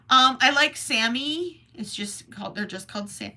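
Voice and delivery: talking through hiccups; words broken by hiccups. Real, not acted. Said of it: "As I have the hiccups really badly".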